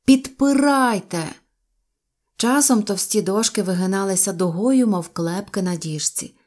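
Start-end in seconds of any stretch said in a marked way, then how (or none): 0.1-1.2 high, stretched-out command; urging call. A narrator's reading. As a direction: call out for help holding firm. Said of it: "закликав я". (протяжний заклик)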